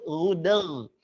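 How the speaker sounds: "gudeg" with throaty gh sounds; softened g. Shown as a demonstration. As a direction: soften both g's in "gudeg". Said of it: "Biasakan lembut".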